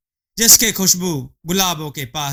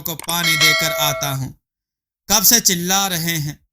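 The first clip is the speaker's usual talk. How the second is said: higher, exasperated husband voice; husband scolding his wife for sleeping all day, higher and exasperated; 3 semitones higher than usual. Acted. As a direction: scold her for sleeping till evening. Bhikhu scolds lazy wife.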